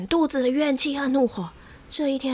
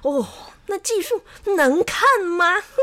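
higher, scornful storybook sneer; mocking; 6 semitones higher, 4 dB louder than usual. A narrator's reading. Xiao Wang mocks rival barbers behind their backs, scornful. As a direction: ridicule rivals with exaggerated disdain. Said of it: "他在背后不断地嘲笑李大和李二".

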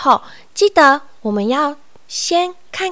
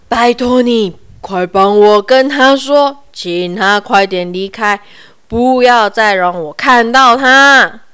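wailing; 6 dB louder than usual. Acted. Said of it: "大熊先生哀嚎".

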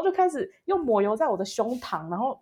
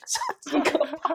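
normal talking voice

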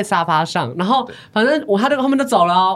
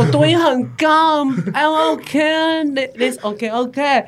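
mock English speaker; 5 semitones higher, much slower than usual. Acting out John's English.

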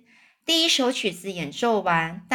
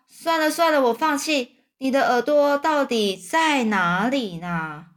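lightly voiced boy, higher, exasperated; boy giving up; 5 semitones higher than usual. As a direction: give up like an impatient child. (小男孩无奈地高声说)

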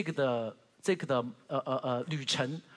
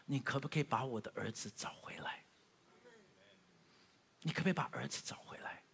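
God's plea; 4 semitones lower, 11 dB quieter than usual. Acted. God pleads with the preacher.

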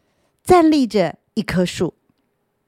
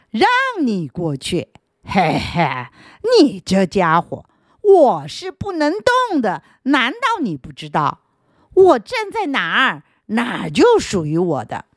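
a touch of a rude, mocking stone; 3 semitones higher than usual. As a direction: rudely refuse to budge. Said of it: "石头很不客气地回答".

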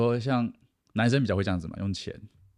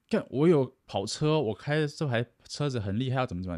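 mock show-off; 5 semitones higher than usual. Mocking show-off rich guy.

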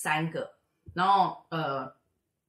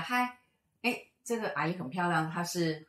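put-on sweet child greeting. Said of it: "就跟刚刚完全不一样".

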